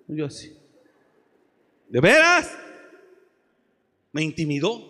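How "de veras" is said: high, loud disbelieving cry; astonished. Retold or imitated. Young preacher retelling his astonished reaction. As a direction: gasp it out in disbelief.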